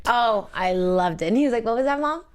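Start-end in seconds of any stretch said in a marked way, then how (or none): 1.7-2.2 sweet and sincere. Retold or imitated. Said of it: "so sweet and sincere".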